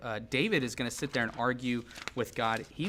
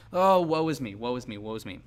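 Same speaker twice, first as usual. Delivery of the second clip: hammed-up self-pity, starting louder then sinking; mock whiny lament; 6 dB louder than usual. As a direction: whine it like a melodramatic mourner, lightly. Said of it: "like, whiny, you know, lamenting psalm".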